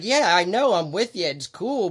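high, loud, hurried-to-agree quote; retold placating protest. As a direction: act out an exasperated driver agreeing. Retold driver placating a window-banging protester.

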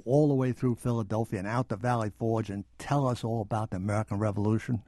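put-on fast, lively Boston accent; imitating a Boston accent. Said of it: "in his marvelous Boston accent".

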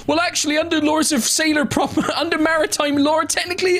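high, prissy objection; a pedant sailor pointing out the law; pedantic sailor. Retold or imitated. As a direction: correct them as a know-all. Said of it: "one of them just goes like".

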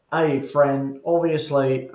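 lightly put-on Australian accent; mild mock-Australian accent. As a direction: imitate an Australian commenter, lightly. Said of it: "I'm doing the Australian accent".

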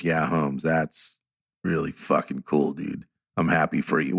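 imitating heartfelt sincerity, low and soft; quietly, genuinely happy for a friend; Jack. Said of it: "When he's sincere, he's really sincere".

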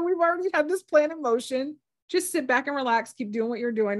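high, loud amused reassurance. Retold or imitated. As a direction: laugh it off calmly. Guides mock her impatience.

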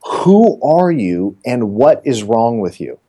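slow, spaced-out demand; retold bafflement. Client calling back about the odd voicemail, baffled. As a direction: draw out each word in mock disbelief.

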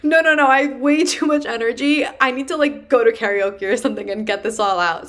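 can't sit still, need to let it out; bursting with energy. Retold or imitated. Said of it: "And I go".

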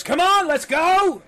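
loud, high call to the crew; big, high-pitched captain's yell; rallying shout. Acted. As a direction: holler orders across the deck. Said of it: "whips his head up and goes".

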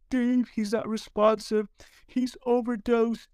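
high, slow mock wail; imitated hysterical crying. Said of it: "And she's hysterical. She is crying".

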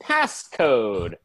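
deliberate, announcing computer; ship computer voice. Acted. Computer demanding a passcode from the captain, automated announcement.

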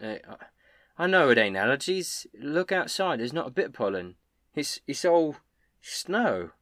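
a hint of a gentle, concerned innkeeper girl; lightly voiced Elsa. Innkeeper Elsa comforting crying Mister Copper, lightly voiced concern.

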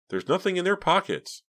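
very high, urgent protest; shrill insistence. A narrator's reading. Pam defends her friends to the cashier, shrill. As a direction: protest at the top of your range. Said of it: "Pam insisted shrilly".

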